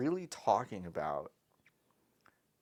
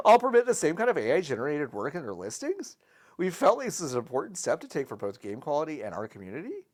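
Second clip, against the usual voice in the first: YouTuber voice; 3 semitones higher, 4 dB louder than usual. Acted. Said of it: "You're doing it in the YouTuber voice".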